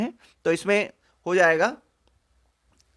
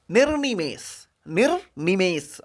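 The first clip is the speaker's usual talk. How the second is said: निर्निमेष drawn out syllable by syllable; slow careful word; slower than usual. Shown as a demonstration. Teacher drilling spelling, निर्निमेष slowly.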